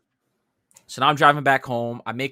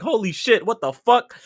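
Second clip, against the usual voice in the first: higher, louder startled cursing; retold yelled cursing; 8 semitones higher, 4 dB louder than usual. Driver cursing after almost hitting a truck, retold yelling. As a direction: re-enact cursing at a near crash. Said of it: "I'm cursing, yelling".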